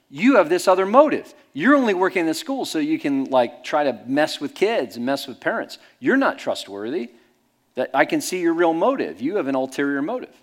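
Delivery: loud, high, triumphant gotcha; mock gotcha accusation. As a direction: pounce on him like you caught him out. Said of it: "And he went".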